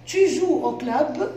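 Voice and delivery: slow, with a rising question tune on "club"; teacher modelling rising intonation, slowly. Shown as a demonstration. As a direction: let "Tu joues au club?" climb at the end like a question. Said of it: "j'ai fait une question avec l'intonation".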